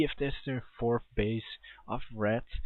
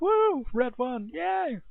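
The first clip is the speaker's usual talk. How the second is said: much higher, hammed-up fake cheer "Red won!"; mock cheering; 13 semitones higher, slower than usual. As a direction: sarcastically mimic a thrilled fan. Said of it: "It's like".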